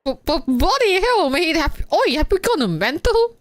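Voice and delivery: put-on lightly done British accent; a hint of British slang voice. Streamer voicing Hector, mild British accent. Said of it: "so I have to do British accent".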